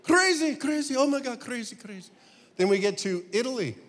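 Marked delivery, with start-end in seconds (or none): 0.0-2.1 put-on high Israeli accent fading to a mutter; a hint of the Israeli taxi driver, dying away; Israeli cabbie again.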